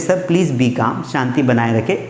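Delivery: calm an angry customer; calming request. Acted. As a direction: receptionist soothing an impatient visitor. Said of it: "उसको बोलते हैं".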